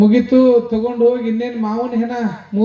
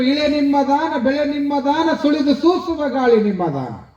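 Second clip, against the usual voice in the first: verse recitation; 2 semitones higher than usual. Acted. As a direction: recite the verse in measured phrases, drawing out the endings. Recites a sharana's vachana.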